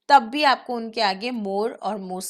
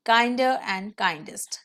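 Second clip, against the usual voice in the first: slow demo; much slower than usual. Shown as a demonstration. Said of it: "Simply you will put E R".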